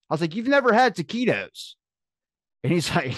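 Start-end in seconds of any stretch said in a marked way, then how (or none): 0.4-1.7 high, astonished question; retold incredulity. Uncle learning nephew never had junk food, incredulous. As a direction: ask it in exaggerated disbelief.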